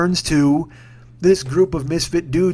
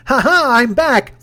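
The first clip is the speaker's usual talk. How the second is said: mock triumphant taunt; 8 semitones higher, 6 dB louder, slower than usual. Mocking Cale's comeback then heckler.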